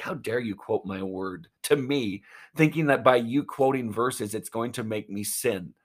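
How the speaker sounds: lightly acted, affronted rebuke; Jesus, mildly frustrated. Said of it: "being a little bit frustrated".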